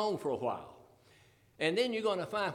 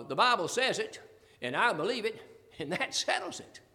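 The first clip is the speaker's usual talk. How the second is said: quoted slogan with a raised ending; quoted saying. Retold or imitated. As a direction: recite it as another person's slogan. Quotes saying in wrong order.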